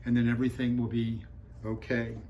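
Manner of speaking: mildly soothing father, retold evenly; calm, patient dad. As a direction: reassure a child in an understated, even voice. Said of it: "Dad was very calm".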